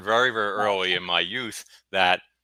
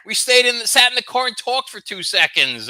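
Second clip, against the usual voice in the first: much higher, loud mock-indignant protest; 13 semitones higher, 7 dB louder than usual. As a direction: plead your innocence, baffled and loud. His retold protest.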